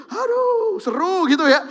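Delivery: sudden high exclamation of dismay; a loud, high aduh; exclaiming. Real, not acted. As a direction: cry out in alarm. Preacher exclaims at the verse.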